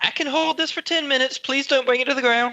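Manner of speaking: very high-pitched shout.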